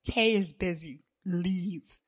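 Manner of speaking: flat, final command; Mikey ordering the rival out, firm; firm, no argument. Acted. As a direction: leave no room to argue. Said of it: "Mikey's tone left no room for argument".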